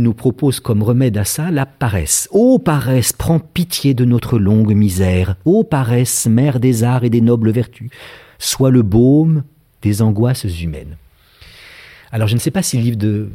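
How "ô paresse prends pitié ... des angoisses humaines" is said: mildly solemn literary declamation, slow on phrase endings; measured poetic apostrophe; declaimed invocation. Acted. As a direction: read it as an ode, lingering on the endings. Declaims Lafargue's invocation to laziness.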